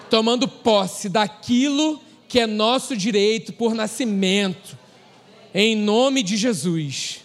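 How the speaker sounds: slow, emphatic preacher rebuking with authority; preaching rebuke. Acted. Pastor rebuking hell over the congregation, slow forceful preaching. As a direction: command it in the name of Jesus, slowly.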